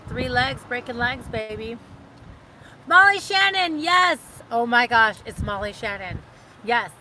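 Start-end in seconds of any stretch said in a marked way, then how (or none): 2.9-5.2 high, loud burst of recognition; excited recall. Real, not acted. Finally remembering the SNL actress, loud and high. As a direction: blurt it out as it finally comes back.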